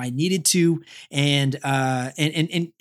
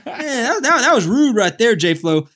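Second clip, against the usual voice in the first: laughing, louder mock complaint; 5 semitones higher, 5 dB louder, slower than usual. Real, not acted. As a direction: laugh through the mock scolding. Laughs at friend's tease.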